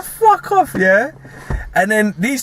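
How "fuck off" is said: mock shout. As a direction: snap it at him, hammed-up. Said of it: "He's like".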